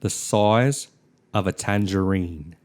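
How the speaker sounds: "size" as "soize", lightly Australian; a hint of Australian vowels in "size"; accent drill phrase. Shown as a demonstration. Teaching an Australian accent warm-up, lightly Australian. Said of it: "to get your accent right".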